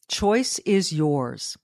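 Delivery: slowed way down, weighing choice; slow, deliberate. Shown as a demonstration. Host driving the point home, slow and deliberate. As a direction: let each word land slowly.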